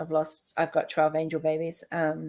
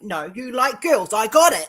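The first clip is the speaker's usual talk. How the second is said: laughing; 4 semitones higher, 8 dB louder than usual. Retold or imitated. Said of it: "I went".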